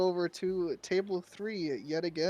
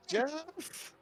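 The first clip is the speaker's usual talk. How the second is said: goblin calling; 5 semitones higher, 7 dB louder than usual. Acted. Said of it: "is just like".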